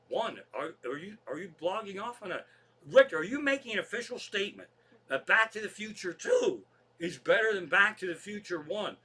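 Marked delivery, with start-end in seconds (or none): 2.9-9.0 higher, louder demanding question; incredulous challenge. Real, not acted. Host challenges his co-host about the sequel ranking, incredulous. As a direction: press him on it in disbelief.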